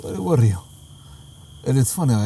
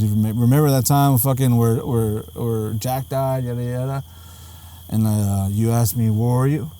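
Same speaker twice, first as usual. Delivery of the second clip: put-on drunk and slurring; 4 semitones lower than usual. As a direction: let it sag like a drunk son. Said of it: "he's drunk and he's on pills".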